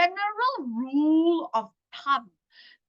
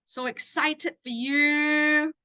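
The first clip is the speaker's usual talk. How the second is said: warm excited; 4 semitones higher, much slower than usual. Shown as a demonstration. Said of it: "So I'm gonna say".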